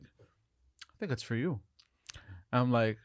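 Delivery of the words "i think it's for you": slow, soft eerie line; softly, spookily slow; eerie dream voice. Retold or imitated. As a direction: say it like a creepy omen, slowly. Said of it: "And you're like".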